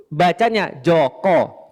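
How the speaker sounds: slow, drawn-out "Joko" with an o sound; Javanese Joko. Shown as a demonstration. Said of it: "Kalau orang-orang Jawa".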